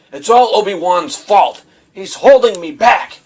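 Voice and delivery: half-hearted sulky complaint; whiny and pouty. Retold or imitated. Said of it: "where he's so whiny and pouty".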